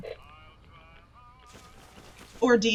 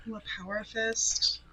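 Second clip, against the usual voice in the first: hushed awed whisper; 9 dB quieter than usual. Real, not acted. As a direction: breathe it out in wonder. Eyeing a new weapon.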